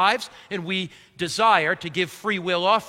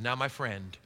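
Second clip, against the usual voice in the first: retold reply; 7 semitones lower, 10 dB quieter than usual. Pastor retells his own brash reply.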